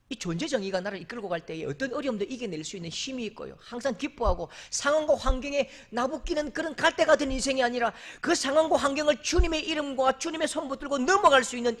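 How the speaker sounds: ordinary talk, nothing marked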